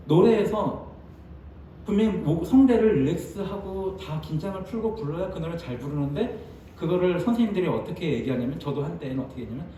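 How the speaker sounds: ordinary delivery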